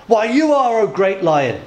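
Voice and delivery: mock-frightened flattery, starting high; quaking zebra. Zebra answering the lion, acted nervousness. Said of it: "this zebra starts to quake".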